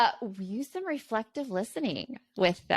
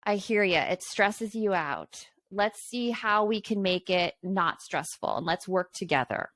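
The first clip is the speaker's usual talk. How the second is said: slow, calm echo back; reflective listening demo. Shown as a demonstration. Parent showing son how reflective listening sounds, slow and calm. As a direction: calmly repeat the child's words back to them. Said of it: "then the reflective listening comes in".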